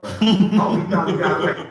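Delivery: loud laughing crow; laughing gloat. Real, not acted. Gloating about rival caught out.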